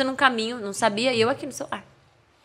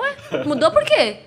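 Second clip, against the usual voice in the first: laughing retort; 2 semitones higher, 4 dB louder than usual. Retold or imitated.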